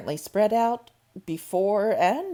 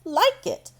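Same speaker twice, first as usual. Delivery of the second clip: louder, pressed repeat of the words; repeated with more force; insistent to herself; 7 semitones higher, 8 dB louder than usual. A narrator's reading. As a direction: say it again, firmer and louder. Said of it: "she said to herself".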